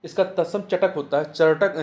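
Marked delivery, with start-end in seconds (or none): 1.3-1.8 चटक said louder, firmly; emphatic correction. Shown as a demonstration. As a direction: stress चटक as the right form. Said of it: "चटर्क नहीं होता". (चटक पर ज़ोर देकर)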